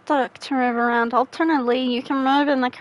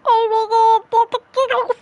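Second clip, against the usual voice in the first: higher, giggly words through a laugh; 9 semitones higher, 3 dB louder than usual. Real, not acted. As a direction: squeeze the words out mid-giggle. Laughing fit while playing.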